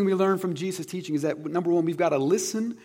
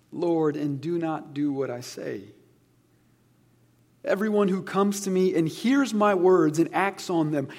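slow, deliberate reading of the parable; scripture reading. Acted. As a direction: let each phrase land like a sermon quote. Reading Jesus' closing words.

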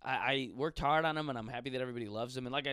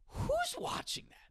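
incredulous. Real, not acted. Incredulous at porn ads.

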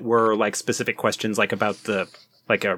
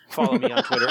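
higher, laughing through the plug; 13 semitones higher, much faster than usual. Real, not acted. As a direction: giggle while you say it. Joking self-plug.

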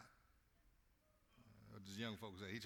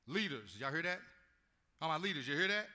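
louder, higher call to the leaders; preacher calling out to the leaders, louder; 5 semitones higher, 10 dB louder than usual. Real, not acted.

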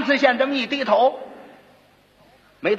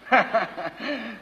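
a short, breathy sneering laugh; cold laugh; 2 semitones lower, 6 dB quieter than usual. A narrator's reading. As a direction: scoff with a cold little laugh. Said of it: "一阵冷笑".

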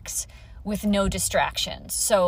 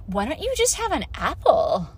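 hammed-up, condescending "I get it"; patronizing advice; 2 semitones higher than usual. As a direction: play a well-meaning diet nag. Acting diet-culture person's patronizing reply.

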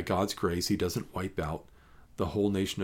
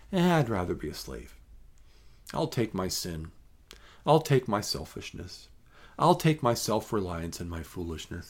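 mock careless shrug; 3 semitones lower, 4 dB quieter than usual. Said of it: "how many times have we said".

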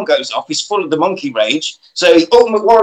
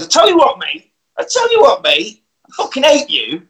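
mock shout up the stairs; 8 semitones higher than usual. Woman shouting up the stairs at the man, high hammed-up yell. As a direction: belt it up the stairs like a furious girlfriend.

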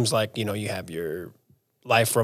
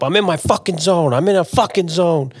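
movie quote; 6 semitones higher than usual. Retold or imitated. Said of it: "a clip from ... White Men Can't Jump".

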